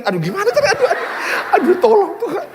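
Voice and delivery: high, laughing aduh, aduh; hammed-up panic. Husband fretting over angry wife as guests arrive, high mock panic. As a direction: panic comically under your breath.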